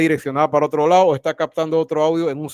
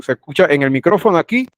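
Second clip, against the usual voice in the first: right on the mic, louder and full; close to the mic; 5 dB louder than usual. Shown as a demonstration. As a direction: speak straight into the mic. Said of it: "¿Se dan cuenta la diferencia?".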